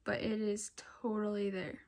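unvoiced hushed whisper. Real, not acted. Showing the faint test to viewers, whispered. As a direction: whisper it so he won't hear.

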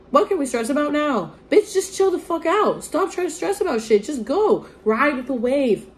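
high, sassy pep talk to herself; mock scolding. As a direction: tell yourself off like a sassy friend.

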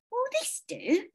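put-on high kindly old lady; sweet elderly neighbour, lilting. A narrator's reading.

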